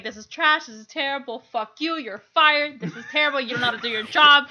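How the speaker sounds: loud contemptuous scolding; hammed-up tirade; mock berating. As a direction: tear into the staff like a boss. Acting out berating store staff.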